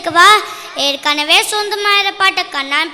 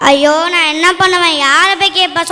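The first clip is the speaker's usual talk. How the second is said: louder, lamenting to himself; despairing wail; 2 semitones lower, 4 dB louder than usual. Acted. Poor poet lamenting that he can't win the prize, wailing. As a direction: cry out helplessly at his bad luck.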